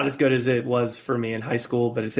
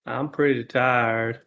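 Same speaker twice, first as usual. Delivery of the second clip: slow, drawn-out Southern Gump voice; mock Forrest Gump; slower than usual. Cohost teases Case with a Gump line, slow mock drawl.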